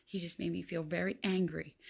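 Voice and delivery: a hint of a little boy explaining himself; lightly voiced young son. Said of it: "Bradley's like".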